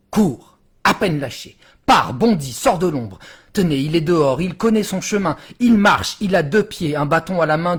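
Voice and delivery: urgent, punched short phrases; animated declamation, each step landed hard; dramatic poem recitation. Acted. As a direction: drive the verse forward like a chase. Poem speeds into the word's escape.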